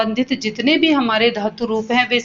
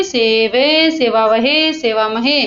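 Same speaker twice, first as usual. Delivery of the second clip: steady rote chant; chanting conjugations with the class; recite along; much slower than usual. Shown as a demonstration. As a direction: lead pupils in repeating the forms. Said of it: "बोलिए मेरे साथ साथ".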